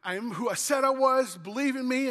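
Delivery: a hint of a friendly guy saying hi; casual Jesus voice. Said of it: "He's like".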